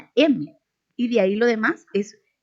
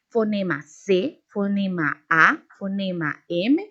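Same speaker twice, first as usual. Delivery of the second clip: deletreo lento. Shown as a demonstration. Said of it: "la división que hago de cada una de las letras".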